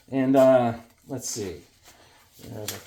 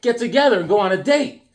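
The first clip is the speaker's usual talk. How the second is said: schmoozing host; 6 semitones higher than usual. Pretend. Greeting the Sonia figure from the package, cheesy schmoozing. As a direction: flatter her like a cheesy uncle.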